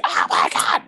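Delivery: breathy, voiceless mock scream; mock freak-out. Imitating fans reacting to the trailer, mock freak-out. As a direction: imitate nerds losing it. Mimicking nerds losing their minds.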